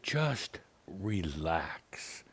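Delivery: calm her, drawing the words out; gentle drawn-out calming; soothing. Retold or imitated. Soothing the upset caller.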